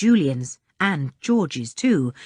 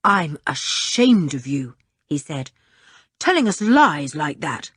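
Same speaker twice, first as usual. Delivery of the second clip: disgusted. Acted. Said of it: "Julian was disgusted".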